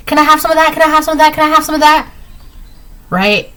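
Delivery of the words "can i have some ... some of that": higher, needy begging lines; mock dog begging. Reader acts the ex begging like a dog, high whiny pleading. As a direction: whine for a treat like a dog. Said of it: "Like a dog".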